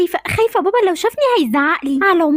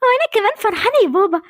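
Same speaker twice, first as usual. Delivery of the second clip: high, excited squeal of joy; thrilled by the baby news; 5 semitones higher than usual. Acted. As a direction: daughter hears about a new baby, excited and higher. Girls hear baby news.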